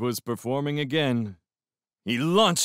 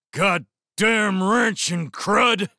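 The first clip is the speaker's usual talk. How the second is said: put-on slow, loud, high drunken bellow; enraged shout; 10 semitones higher, 6 dB louder, slower than usual. A narrator's reading. Enraged drunk curses from the mud, bellowing. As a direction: roar the curse, drawing it out. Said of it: "the beast was clearly enraged".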